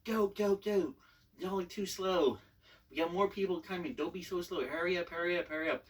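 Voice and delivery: loud, pushy recruiter barking orders; mock drill instructor yell. Commander yelling at recruits to get off the bus, loud. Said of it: "he just started yelling at us".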